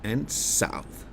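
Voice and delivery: slow, north high and south dropping low; high then low. Shown as a demonstration. Teacher contrasting north high and south low. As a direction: draw north up and south down with your voice. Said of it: "So it's high, low".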